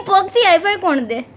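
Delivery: laughing through the question; પગથી હાઈ ફાઈ કોણ દે? said through a laugh. Real, not acted.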